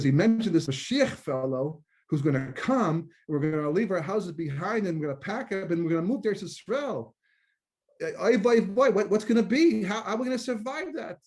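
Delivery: rising into high, loud panic, oy vey; husband working himself into a comic panic; distraught husband. Acted. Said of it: "very distraught".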